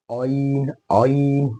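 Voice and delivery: आइन rounded into a made-up "oin"; wrong artificial vowel. Shown as a demonstration. Teacher showing what to avoid, आइन with affected rounded vowel. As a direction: round the start of आइन unnaturally. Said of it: "ये भी नहीं करना".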